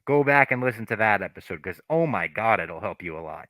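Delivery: muffled through a cloth wrap; talking with face wrapped up. Real, not acted. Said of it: "What is this muffled fucking voice".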